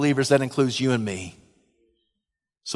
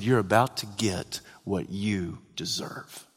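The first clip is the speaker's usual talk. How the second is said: menacing near-whisper; 7 semitones lower, 8 dB quieter than usual. Acted. Preacher imagining himself as God to the mockers, menacing whisper. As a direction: drop to a whisper and measure out the warning.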